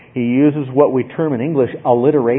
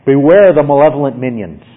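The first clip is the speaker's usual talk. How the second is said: firm, somewhat louder warning; forceful; 6 dB louder than usual. Shown as a demonstration. Preacher showing how forcefully Paul speaks, firm warning. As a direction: drive the warning home. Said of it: "how forcefully Paul is speaking".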